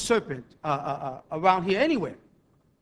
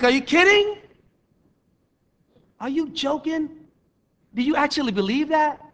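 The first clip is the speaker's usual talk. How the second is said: incredulous; 6 semitones higher than usual. Retold or imitated. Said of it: "I'm like".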